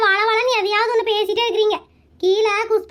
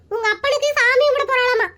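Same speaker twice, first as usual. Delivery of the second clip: hammed-up crying complaint ending in a long wail; tearful tattling. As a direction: tattle tearfully, stretch the last word into a sob. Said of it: "அம்மா அழுகாதீங்கம்மா".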